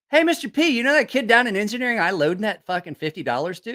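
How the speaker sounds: high, eager hey Mister P; eager tattling. Retold or imitated. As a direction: run to tell the big guy. Tattling to big friend.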